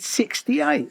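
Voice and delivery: "Sixty-eight?" leapt up high and loud in amazement; high, astonished "Sixty-eight?"; shocked disbelief. Retold or imitated. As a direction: echo the number back, stunned. Shocked at late big break.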